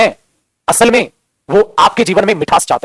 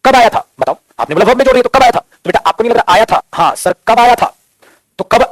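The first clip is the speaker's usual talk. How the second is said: raised, louder pressing question; insistent questioning; 4 semitones higher, 4 dB louder than usual. Acted. Teacher demanding an answer from the class, raised and louder. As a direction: push them hard for the answer.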